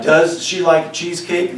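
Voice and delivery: slow, lifted question on "does she like cheesecake"; questioning tune. Shown as a demonstration. Teacher gives students an example question, slow questioning tune. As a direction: ask it slowly as a question. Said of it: "pitch in my voice is raising".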